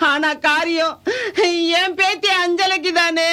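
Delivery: tearful words building to a wail; tearful lament. Acted. Grandmother speaks of granddaughter Anjala's last rites, tearful then wailing. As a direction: agree through sobs, then break into wailing. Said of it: "நீங்க இப்படி அழுதுட்டு இருந்தா".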